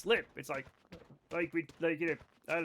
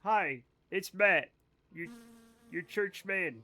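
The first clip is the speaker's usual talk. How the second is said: mock church man; slower than usual. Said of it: "I could give it a go".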